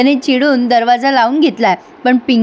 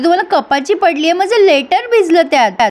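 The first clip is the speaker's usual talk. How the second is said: higher, upset yell at the mother-in-law; mock-upset raised voice; 5 semitones higher than usual. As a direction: snap back, upset over the wet letter. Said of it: "आता ती ओरडते मिताली".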